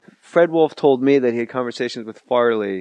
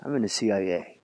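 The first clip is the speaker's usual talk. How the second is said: deadpan claim; 7 semitones lower, 8 dB quieter than usual. Retold or imitated. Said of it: "He goes".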